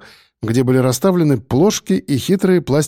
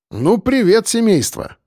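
higher bright hearty greeting; cheerful exclamation; 8 semitones higher than usual. A narrator's reading. Friend bursting into hospital room, hearty greeting. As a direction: call out as you burst in. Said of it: "воскликнул Шульгин".

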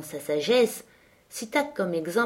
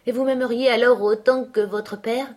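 a touch brighter, higher-pitched question; more cheerful; 5 semitones higher, 3 dB louder than usual. A narrator's reading. Linton asking Catherine about her love, more cheerfully. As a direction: perk up slightly as you ask. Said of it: "Observa-t-il plus gaiement".

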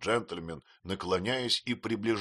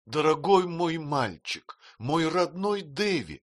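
slow, high, tender call; tender exclamation; 8 semitones higher, 3 dB louder, slower than usual. A narrator's reading. Mother tenderly exclaims to her son, slow and high. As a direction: embrace him with the voice. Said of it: "воскликнула матушка".

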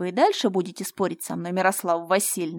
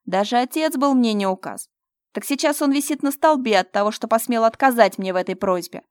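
menacing rant; 7 dB louder than usual. Acted. Fyodor threatens Mira, loud and gloating.

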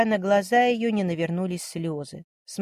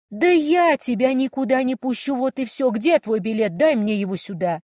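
raised, higher, louder voice, refusing to let her go; shouting; 5 semitones higher, 4 dB louder than usual. Acted. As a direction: shout it at her sister, don't let her leave. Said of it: "Не кричи". (громко, на крике)

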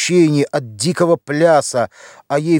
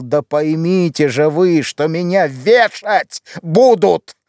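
shouting; 3 semitones higher, slower than usual. Acted. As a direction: shout it at her so she finally understands. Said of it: "Василий закричал". (отчаянный крик, медленно и выше)

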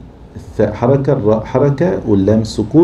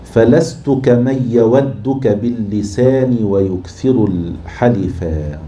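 slow, measured chant of a classical verse; slow classical Arabic verse recitation; poetry recitation; 3 semitones higher, much slower than usual. Shown as a demonstration. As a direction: recite it slowly, stretching each syllable. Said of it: "ومثاله قول الوليد بن يزيد".

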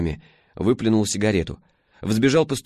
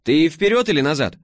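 бойкая девушка; 7 semitones higher, 5 dB louder than usual. A narrator's reading. Бойкая Алёна.

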